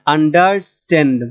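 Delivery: আন্ডারস্ট্যান্ড with স্ট্যান্ড leaned on; end-stressed teaching আন্ডারস্ট্যান্ড; stress on last part. Shown as a demonstration. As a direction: put the weight on স্ট্যান্ড in আন্ডারস্ট্যান্ড. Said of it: "verb হলে শেষের অংশটা এসে".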